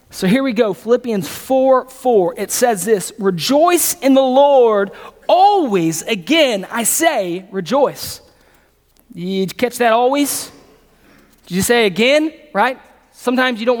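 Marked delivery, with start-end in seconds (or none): 3.2-8.2 scripture reading. Acted.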